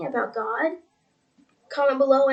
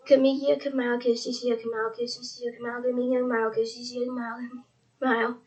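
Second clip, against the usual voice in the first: speaking in tongues. Shown as a demonstration. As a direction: repeat the sounds like a murmured prayer chant. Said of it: "that's me speaking in tongues".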